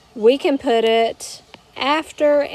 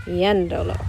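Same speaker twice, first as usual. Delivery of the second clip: "yéndolo" stressed on YEN, the first syllable; accent on the E; 3 semitones lower than usual. Shown as a demonstration. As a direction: keep the weight on the E of "yéndolo". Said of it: "so I need to add an accent".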